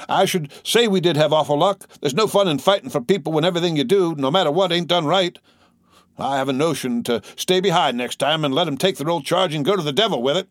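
high-pitched, aggrieved rant; wounded indignation. A narrator's reading. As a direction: protest the unfairness hotly. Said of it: "deeply wounded at an injustice".

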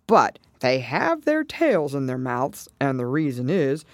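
lightly voiced turtle, measured explanation; Mock Turtle. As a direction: confirm it in a lightly acted turtle voice. Mock Turtle voiced, confirming Alice's words.

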